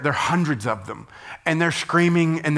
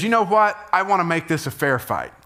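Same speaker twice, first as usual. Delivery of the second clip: bold challenge; 5 semitones higher than usual. Retold or imitated. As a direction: throw down the gauntlet with a grin. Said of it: "Elijah says".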